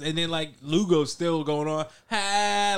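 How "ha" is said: drawn-out imitated cackle, a bit high; mock laugh. Imitating a teammate still laughing on the game chat, mock laugh. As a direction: imitate someone's laugh, raised in pitch.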